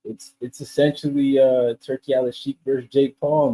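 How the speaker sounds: distant, faint mic sound; far from mic. Real, not acted. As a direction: voice coming from across the room. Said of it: "I think your mic is off".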